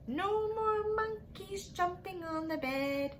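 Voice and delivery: a light sing-song doctor's scold; doctor's scolding line. Acted. Rhyme doctor warning the monkeys, lightly mock stern. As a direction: chant it like a mild warning. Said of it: "the doctor said".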